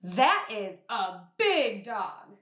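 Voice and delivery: excited exclamation. Shown as a demonstration. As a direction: react like you really saw a big dog. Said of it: "get a little bit loud and a little bit excited".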